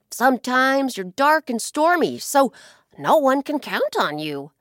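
a hint of a sly bird leaning in with a secret; sly blackbird. Blackbird baiting the ocean with gossip, loud and sly.

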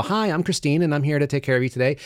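lightly voiced waitress introduction; waitress greeting. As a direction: imitate a server's high opening spiel. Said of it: "they'll come up and they'll go".

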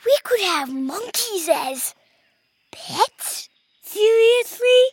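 put-on very high, drawn-out kid voice in amazement; high-pitched disbelieving delight; excited kids. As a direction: squeal it like thrilled little boys. Exchanged an excited look.

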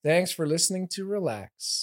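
Northern Irish speaker putting on an American accent. Shown as a demonstration. Irish guest put on the spot by hosts, attempted American accent. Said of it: "Could you do an American accent?".

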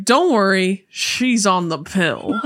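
drawn-out punchline; sketch catchphrase. Retold or imitated. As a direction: stretch the last phrase slowly.

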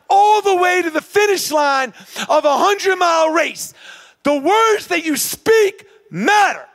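high, forceful triumphant build; rousing climax. Retold or imitated. Runner counting miles to the hundred-mile finish, rousing forceful build. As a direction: drive each milestone home to the finish.

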